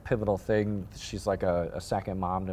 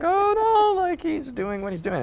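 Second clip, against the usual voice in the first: high, sweetly dismissive mom voice; passive-aggressive mother; 5 dB louder than usual. Retold or imitated. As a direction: brush it off in a high sugary tone. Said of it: "super passive aggressive mother".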